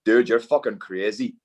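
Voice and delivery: a faint, badly done Northern Irish accent; hint of a Northern Irish accent in a retold quote; Joe McColgan's Northern Irish accent. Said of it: "I'm gonna do a terrible Northern Irish accent".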